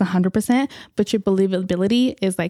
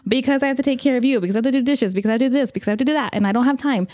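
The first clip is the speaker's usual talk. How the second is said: mildly exasperated, slightly raised pitch; rattled-off excuses; 4 semitones higher, faster than usual. Retold or imitated. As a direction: reel off a list of excuses. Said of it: "I just kept going off".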